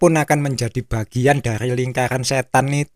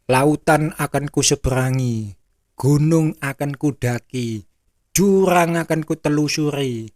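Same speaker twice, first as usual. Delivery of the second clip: lightly declaimed verse with drawn endings; old-fashioned poem. Acted. Preacher mocks old-time poetry, light recitation. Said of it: "Persis puisi-puisi jadul".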